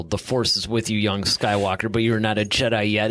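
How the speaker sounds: lightly imitated villain, low and measured; Vader. Quoting favorite Vader line to co-host, low lightly voiced menace. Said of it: "It's like the way that he delivers that line".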